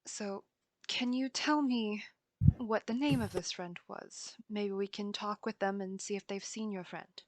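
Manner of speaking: hushed, careful questioning of a little one; gentle questioning. Acted. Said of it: "crouch down, uh, to Biter and say".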